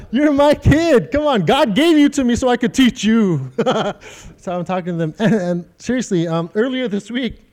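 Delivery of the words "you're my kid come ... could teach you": parent voice. Retold or imitated. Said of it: "You hear it every day in my house".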